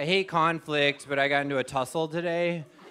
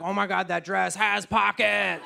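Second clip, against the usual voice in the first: delighted gasp at pockets; 2 semitones higher, slower than usual. Retold or imitated. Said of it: "me who's like".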